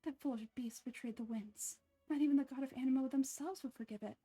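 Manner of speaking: a touch of pious scorn; prim, disapproving sister; Barbara impression. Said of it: "I can do a good Barbara impression".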